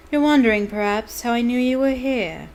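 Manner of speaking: cold sneering teacher. Acted. Snape voiced in reading.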